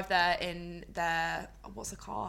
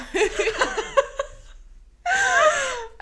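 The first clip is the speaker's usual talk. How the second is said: high laugh, louder, long; 10 dB louder than usual. Real, not acted. Laughing at friend's swimsuit guess. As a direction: crack up at the wrong guess.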